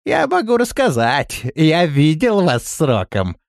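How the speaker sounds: хвастливый рассказ Рохли; слегка приподнятый голос хвастуна. A narrator's reading. Рохля дразнит. (хвастливо, чуть выше)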